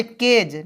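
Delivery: "केज" ending in j, not g; final J sound. Shown as a demonstration. Teacher showing the GE rule, "केज" ending on j. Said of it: "इसलिए उच्चारण ज".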